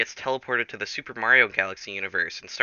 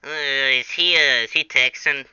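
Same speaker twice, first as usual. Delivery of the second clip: a touch higher, puzzled muttering; lightly voiced minions; 4 semitones higher, 4 dB louder than usual. Minions puzzle over Jack in lightly put-on voices. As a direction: wonder aloud like a tiny confused minion. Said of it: "speaking to themselves in their own language".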